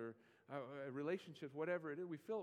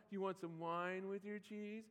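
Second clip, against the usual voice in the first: snarky; 5 semitones higher than usual. Retold or imitated. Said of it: "I don't think he got snarky either".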